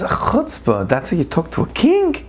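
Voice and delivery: high, affronted royal voice; a king insulted by his subject; indignant lion king. Acted. Lion king scolding the sheep for insulting him, indignant.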